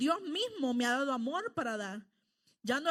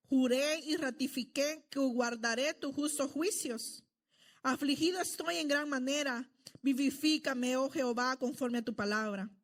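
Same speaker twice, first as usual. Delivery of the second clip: scripture reading. Acted. Reads psalm aloud to congregation.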